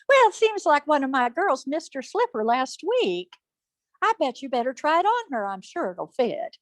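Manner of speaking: high, gushing put-on voice; ingratiating high-pitched mother; scheming mother. Mother coaxes prince, acted.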